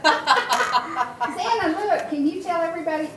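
bright, high, fast coaxing. Real, not acted. Grandma to baby Xana, high excited coaxing.

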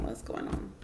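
normal talking voice

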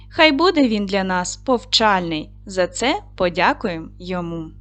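lightly lilting classroom poem; measured children's verse reading; rhymed verse recitation. Acted. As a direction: recite a cheerful greeting rhyme to pupils. Recites a rhymed lesson greeting.

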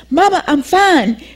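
a light hint of the daughter calming her mother; reassuring daughter.

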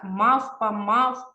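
мавпа and мавп said slowly, the м and п pressed hard; stressing the lip sounds. Shown as a demonstration. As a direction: lean on the lips in мавпа, мавп. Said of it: "Губні приколесні".

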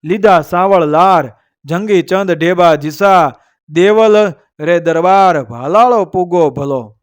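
measured, metrical couplet delivery; verse recitation. A narrator's reading. Storyteller reciting a couplet to listeners, verse recitation. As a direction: recite it as an old heroic verse.

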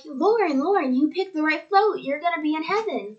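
lightly voiced excited cheering for her; excited family. Family cheering her choice of float, mildly excited. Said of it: "they're super excited for me".

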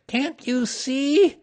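high, loud, slow demand; small animal's exasperated shout. A narrator's reading. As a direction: shout it up high, stretching the words. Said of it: "shouted Piglet".

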